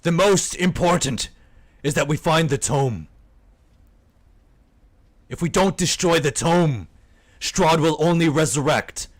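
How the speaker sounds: lightly acted storyteller character; a hint of an in-character warning; lightly voiced weary adventurer. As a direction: speak in measured, emphatic phrases with pauses. Game master voices a character.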